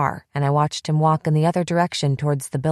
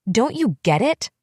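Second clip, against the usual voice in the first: higher, sharp furious demand; screamed; 6 semitones higher than usual. Acted. Bethy to her friend, a furious demand. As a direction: throw the question at her. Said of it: "I screamed at her".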